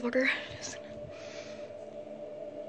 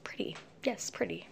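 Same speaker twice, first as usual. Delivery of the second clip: breathy hushed whisper; barely voiced, keep it secret; 4 semitones lower, 11 dB quieter than usual. Real, not acted. Girl filming her room at night, whispering.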